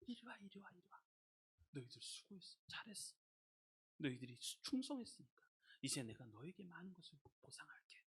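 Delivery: put-on very soft, intimate call to children; God calling tenderly. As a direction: voice God quietly praising them, almost murmured. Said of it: "하나님이 이렇게 불러요". (아주 나직하고 다정하게 부르는 목소리)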